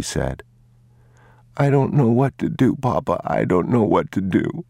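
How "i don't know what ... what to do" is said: put-on a scared boy about to cry; frightened boy. The boy pleads with his father, high and panicked.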